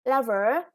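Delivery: Lover with the first syllable stressed. Shown as a demonstration. Teacher models the stress on Lover for pupils. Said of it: "the first syllable is stressed".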